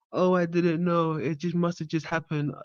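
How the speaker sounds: high, soft mock innocence; mocking imitation. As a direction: parrot her feebly in a high little voice. Mocks the woman's excuse.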